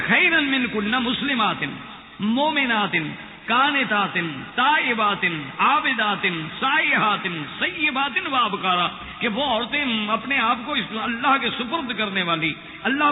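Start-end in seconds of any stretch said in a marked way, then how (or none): 0.1-8.9 emphatic recitation. Acted. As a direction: proclaim each word of the verse's list to the crowd. Repeats the list emphatically.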